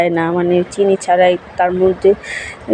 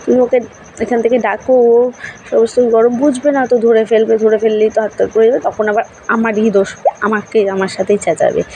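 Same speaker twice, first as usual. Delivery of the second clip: calling to husband; 2 semitones higher than usual. Retold or imitated. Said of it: "আমি ওর বাবাকে বলছি".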